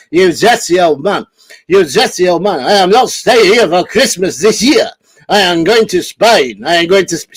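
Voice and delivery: a rough attempt at the old man; Steptoe impression. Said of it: "do a Steptoe's voice".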